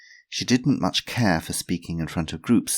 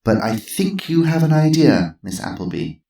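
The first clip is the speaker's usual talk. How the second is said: higher, louder gentle urging; encouraging; 10 semitones higher, 7 dB louder than usual. Acted. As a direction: smile at her. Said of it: "smiling encouragingly".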